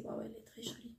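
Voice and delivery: hushed, breathless "waouh" of delight; awed whisper. Real, not acted. Vlogger unboxing a pretty palette, awed whisper.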